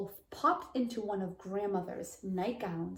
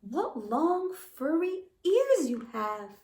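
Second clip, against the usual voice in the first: put-on little girl voice; 6 semitones higher, 4 dB louder, slower than usual. Girl character voiced in the story.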